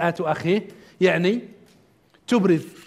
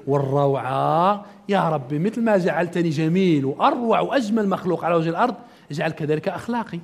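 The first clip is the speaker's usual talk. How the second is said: gaze in the mirror and marvel; admiring self at mirror; 4 semitones lower than usual. Acted. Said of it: "لما أقف المرآة أقول".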